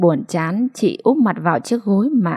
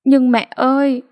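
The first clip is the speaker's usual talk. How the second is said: raised voice; 6 semitones higher, 3 dB louder than usual. A narrator's reading. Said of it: "hai mẹ con lớn tiếng".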